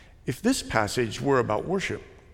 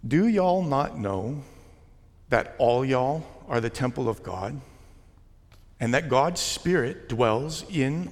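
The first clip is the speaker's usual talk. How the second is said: Southern English reading. Shown as a demonstration. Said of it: "read this text in the plural using Southern English".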